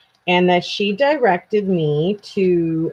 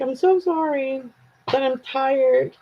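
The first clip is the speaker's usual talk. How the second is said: apologetic Canadian; 3 semitones higher than usual. Retold or imitated. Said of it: "It's so Canadian to be like".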